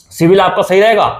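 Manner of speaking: a viewer's hopeful assumption, lightly voiced, falling at रहेगा; mock hopeful guess. Shown as a demonstration. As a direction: say civil आपका सही रहेगा as if naively hopeful. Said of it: "civil आपका सही नहीं रहेगा भाई". (भोली उम्मीद वाले लहजे में, हल्का सा)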